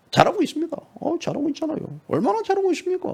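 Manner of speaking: high, mocking "well done"; sarcastic mock applause; sarcastic praise. Real, not acted. Mocking praise of rival party.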